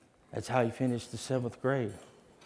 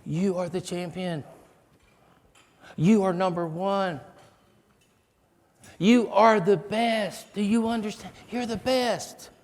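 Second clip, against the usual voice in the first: high, loud, slow rousing affirmation; fervent encouragement; 9 semitones higher, 5 dB louder than usual. Retold or imitated. Teacher rallying the scared boy before the stage, fervent and rousing. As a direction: pour belief into the boy, building. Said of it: "And she goes".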